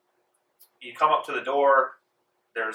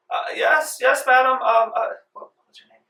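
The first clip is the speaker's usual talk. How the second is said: flustered maid; 13 semitones higher, 7 dB louder than usual. Acted. Maid answers madam.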